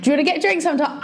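awkward practice ask; nervous rehearsed invitation; asking someone out. Pretend. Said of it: "You can't even say it to me".

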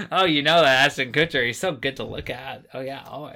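gushing wine mom voice, lightly done. Retold or imitated. Joking about Ashton Kutcher, a light gushing wine mom voice. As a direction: swoon over a celebrity like a tipsy mom. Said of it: "I'm like a wine mom".

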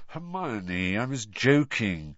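slow, tired and drooping; exhausted boy gently correcting his friend; weary. Acted. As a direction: sigh it out, worn down. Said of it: "said Harry wearily".

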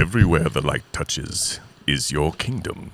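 slow, stately lion-king father; grand, unhurried movie-father impression; James Earl Jones. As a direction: draw it out like a solemn monarch. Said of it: "James Earl Jones, man".

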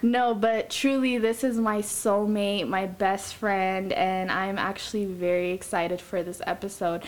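flat monotone voice, little pitch movement. Real, not acted. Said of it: "don't mind my little monotone voice today".

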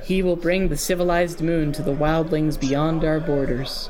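even, lifeless true believer; monotone voice. Acted. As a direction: drone it without feeling. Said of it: "in a strange monotone voice".

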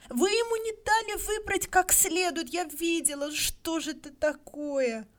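woman's indignant high outcry; crying out in protest. A narrator's reading. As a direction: shout your outrage at the official. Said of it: "Вдруг Тесси Хатчинсон прокричала".

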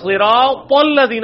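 صراط الذین slow, heavy ص and thick ذ; correct reading. Shown as a demonstration. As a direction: stretch صراط الذین slowly with full Arabic sounds. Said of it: "صراط الذین تو نہیں ہے وہ".

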